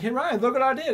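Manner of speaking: high, loud proud boast to the roommate; excited brag. Retold or imitated. Telling roommate Ryan about the Wii, proud high call. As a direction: show off like a kid. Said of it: "I'm like".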